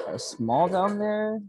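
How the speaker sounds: incredulous emphasis. Real, not acted. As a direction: drive home how absurd it is. Mock outrage at the admission.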